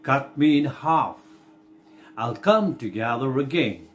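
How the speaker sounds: slow, deliberate verse with pauses between phrases; poem reading. Acted. Teacher reading the Earthworm's monologue for the class, slow recitation. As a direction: read the poem out slowly, stretching the key words.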